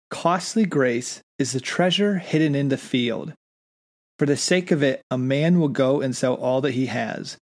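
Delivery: slow, measured reading aloud; solemn reading of a revered text; reading a quotation. Acted. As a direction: read the passage with gravity. Reads a quoted passage aloud.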